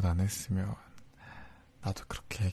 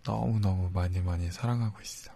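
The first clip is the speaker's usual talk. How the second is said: whispering. Acted. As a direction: whisper it close and tender. Whispered love confession.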